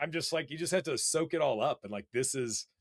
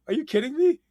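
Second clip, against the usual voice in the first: even higher, louder squeal of disbelief; repeating the reaction with more excitement; higher thrilled shriek; 14 semitones higher, 9 dB louder than usual. Retold or imitated.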